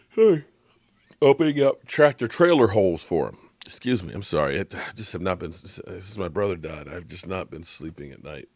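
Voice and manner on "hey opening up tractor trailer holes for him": sudden loud, high excited yell; excited outburst. Real, not acted. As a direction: get fired up about the huge holes. Excited burst about line play.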